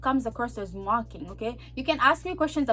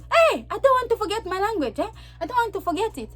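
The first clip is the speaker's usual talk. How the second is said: high-pitched, defiant protest; indignant retort; 8 semitones higher than usual. Acted. Answering friends about keeping my language, indignant retort. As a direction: push back in a raised, offended pitch.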